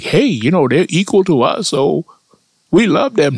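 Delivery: high, lightly voiced mock German admirer; a high, gushing send-up of a German admirer. A comic telling of how Germans saw black people, done in a high, gushing voice. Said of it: "think they love black people like".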